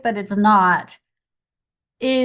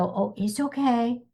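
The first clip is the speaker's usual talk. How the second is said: put-on babying coo; 3 semitones higher than usual. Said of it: "I don't want her to be babied".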